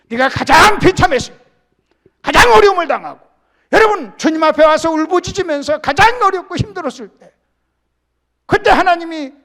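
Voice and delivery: loud, high sermon cry; full-voiced preacher's shout; preaching at full force. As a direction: lift the congregation with a ringing call.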